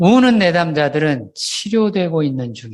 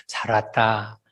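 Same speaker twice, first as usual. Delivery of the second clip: God speaking; 7 semitones lower, 7 dB quieter, slower than usual. Retold or imitated. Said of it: "하나님이 그러시고".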